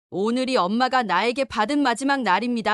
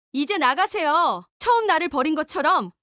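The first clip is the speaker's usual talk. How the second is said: cold dismissal; 6 semitones higher than usual. Acted. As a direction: show her the door. Daughter sending mother away.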